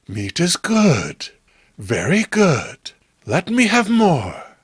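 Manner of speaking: slow and savoring, like a strange sea creature; slow inhuman craving; slow eerie creature voice. Acted. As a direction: draw out each word with hunger, rising at the end. Diana, the sea creature, craves meat.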